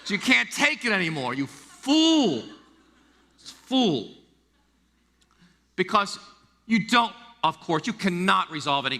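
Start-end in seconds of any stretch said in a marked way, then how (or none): 1.3-4.1 scolding. Acted. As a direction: rebuke the listener. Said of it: "scolding punchline".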